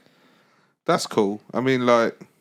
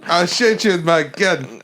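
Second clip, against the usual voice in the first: bad South African accent; 4 semitones higher, slower than usual. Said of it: "Is that not South African?".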